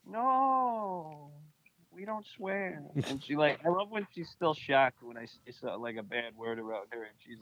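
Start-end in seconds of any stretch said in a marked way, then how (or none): 0.0-2.8 imitating his mom. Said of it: "my mom is always like".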